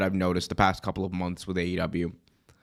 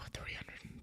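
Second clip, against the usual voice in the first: whispered; 22 dB quieter than usual. Real, not acted. Correcting a number mid-sentence.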